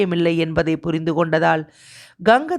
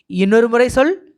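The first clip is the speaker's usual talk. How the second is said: higher, louder insistence; startled demand; 6 semitones higher, 5 dB louder than usual. A narrator's reading. Master stopped short by the news, insisting sharply. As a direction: urgently demand a repeat.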